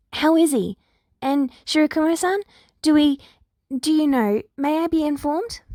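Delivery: desperate for news of loved ones; anxious pleading. Acted. Big Eri begs Nedzu for news, high and anxious.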